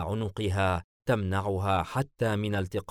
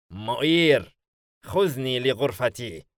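louder, higher royal call; raised voice; 4 semitones higher, 5 dB louder than usual. A narrator's reading. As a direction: call out a command to a servant. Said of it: "الملك بصوت مرتفع". (نداء الملك بصوت مرتفع)

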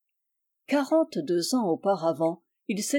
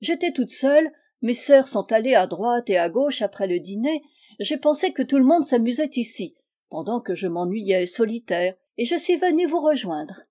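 lightly voiced chatterer, lifted in pitch; a hint of a plaintive, eager visitor; gushing intruding spinster; 2 semitones higher than usual.

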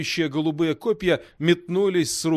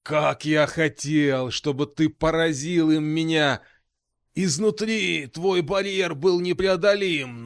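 vast deep cosmic voice; 3 semitones higher than usual. Acted. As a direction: gloat like a freed demon, building. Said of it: "Громовой голос был тяжёлым и едким от насмешки".

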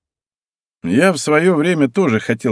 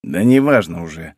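calmer; 5 semitones lower than usual. Acted. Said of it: "ответил он более спокойно".

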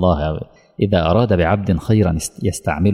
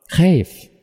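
خايف lifted high and pressed; urgent raised خايف to the listeners; emphatic word; 8 semitones higher, much slower than usual. Real, not acted. Preacher stresses fear.

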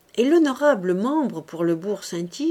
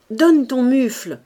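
loud, raised command; brisk order; 5 semitones higher, 8 dB louder than usual. A narrator's reading. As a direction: order the fighter, voice up. Second ordering his battered boxer. (ordre lancé d'une voix forte)

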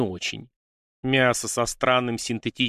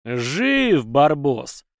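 joyful; 2 semitones higher, 4 dB louder, much slower than usual. A narrator's reading. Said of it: "радостно хохотнул дракон".

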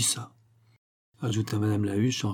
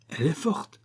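high-pitched disbelief; stupefied; 6 semitones higher than usual. A narrator's reading. Husband to wife blaming him, stupefied. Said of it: "s'exclama le mari stupéfait".

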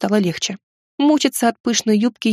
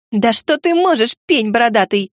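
взвизгнула; 3 dB louder than usual. Acted. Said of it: "взвизгнула незнакомка". (визгливо, с презрением)

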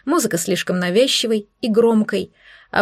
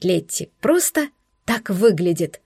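parodying the necromancer; slower than usual. Retold or imitated. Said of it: "пародируя некроманта".

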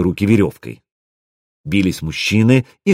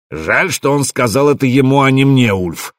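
high-pitched, mildly raised voice; loud declaration; 4 semitones higher than usual. A narrator's reading. Svardhövdi tells Ulf his regret, mildly loud declaration. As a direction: declare it for all to hear, slightly raised. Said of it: "громко произнёс Свардхёвди".

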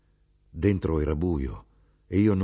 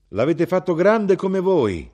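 admiring woman; 13 semitones higher, 9 dB louder, slower than usual. Acted. Woman admires mother's son.

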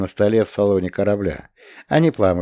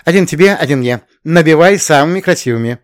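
excited; 7 semitones higher, 6 dB louder than usual. A narrator's reading. Shura continues excited.

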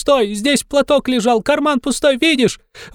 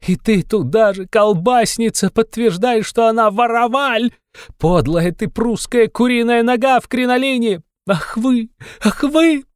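hysterical tirade; 13 semitones higher, 3 dB louder than usual. A narrator's reading. Katerina's hysterical tirade at Luzhin.

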